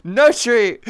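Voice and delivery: loud, firm refusal. Acted. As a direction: say no like scolding a dog. Denying the treat.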